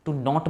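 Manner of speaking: "knot" said with no K sound, like "not"; silent K. Shown as a demonstration. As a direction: say "knot" starting straight on the N. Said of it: "के silent होता है".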